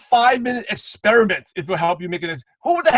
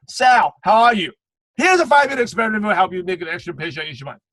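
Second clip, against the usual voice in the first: mock scripted pitch, greeting then rushed offer; unnatural sales script. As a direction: read it like a canned message. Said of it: "Do people talk like that?".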